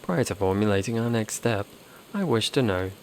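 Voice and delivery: even, measured machine delivery, lightly done; lightly voiced robot. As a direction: read it like a cool logical android. Robot voice again.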